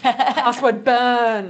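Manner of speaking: slow, loud rallying chant; battle cry. Pretend. Joking rally against passwords.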